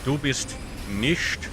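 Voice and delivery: put-on, not entirely good German accent. Gamer narrating moves to foes and self, mock German accent. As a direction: play it with a hammy German accent. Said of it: "I don't know why I'm German".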